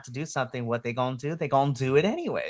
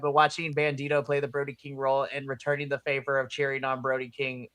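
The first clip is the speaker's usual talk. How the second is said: usual speaking voice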